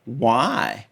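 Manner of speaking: quiet scoffing "Why?" tossed off; dismissive why. Retold or imitated. New York crew quietly scoffing at a Tennessee origin. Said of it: "they just looked at me and said".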